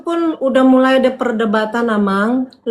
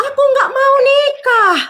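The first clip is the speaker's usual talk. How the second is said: desperate refusal; 12 semitones higher, 4 dB louder, slower than usual. Retold or imitated. Retold refusal, near shouting.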